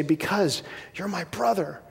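softly acted dying reply; dying words. Dying friend answers why he took the bullet, softly acted dying words.

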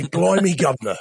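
stock English catchphrase for others to repeat; lightly put-on English accent; English accent demo. Shown as a demonstration. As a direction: model a mock English accent, punchy first word. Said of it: "say after me in an English accent".

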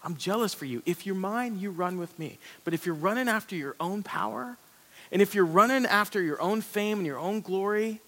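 a hint of God pleading for his people; God speaking. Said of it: "He says, God says".

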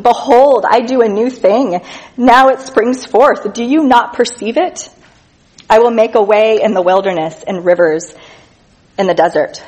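a preacher reading Isaiah with lifted voice; scripture reading. Acted. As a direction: read it out like a prophet's proclamation. Reads scripture aloud.

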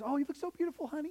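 high, lightly put-on fatherly gushing; gushing dad. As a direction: coo it like a proud dad to a little girl. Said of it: "we do that to our daughters".

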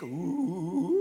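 mock spooky moan with an odd timbre; a hammed-up horror-movie ooh; creepy ooh. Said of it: "He's got this creepy voice".

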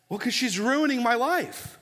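put-on whiny teen. Teen complains about mother.

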